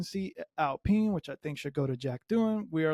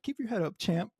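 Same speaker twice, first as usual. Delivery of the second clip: a touch higher, mock-consoling champ; mock pat on the back; 5 semitones higher than usual. Mocking Hamilton consoling Russell, light patronising tone. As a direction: tease him like a patronising mentor. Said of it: "It's like".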